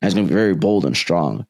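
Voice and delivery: a hint of bold, strong delivery, quick. Podcaster previewing his bold strong voice, lightly done. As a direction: push it out boldly and briskly, lightly. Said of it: "this over time knowing".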